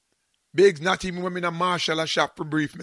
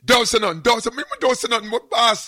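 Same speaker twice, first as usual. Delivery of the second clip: louder and quick, pressing; urgent hush; 6 semitones higher, 7 dB louder than usual. Retold or imitated. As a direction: rush the warning out. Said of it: "I'm saying".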